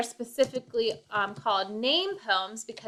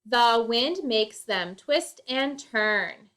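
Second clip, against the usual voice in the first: poem reading; slower than usual. Shown as a demonstration. Reading a haiku aloud.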